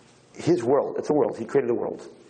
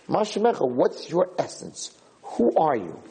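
demanding question; 4 semitones higher than usual. Retold or imitated. Yaakov demands the angel's name.

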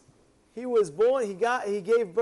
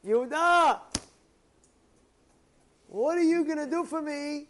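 higher, calling out to his son; questioning father; 6 semitones higher than usual. Acted. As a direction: call his son by name, then ask. Father asks second son.

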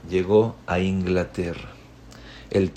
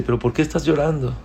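higher, quicker insistent question; pressing question; 5 semitones higher, much faster than usual. Acted. King insisting a third time that the boy explain his tears. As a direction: press him for the answer.

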